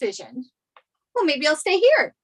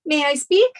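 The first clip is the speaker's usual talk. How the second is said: loud; 3 semitones lower, 4 dB louder than usual. Acted. Father won't let her talk.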